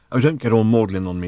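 mildly snappish rebuke; mild snap. Acted. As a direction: cut off the sentiment with some impatience. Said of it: "snapped Ford".

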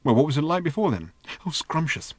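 high, breathless robot in raptures; giddy little robot. Acted. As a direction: gush like a robot besotted with everything. Narrator voicing the giddy robot.

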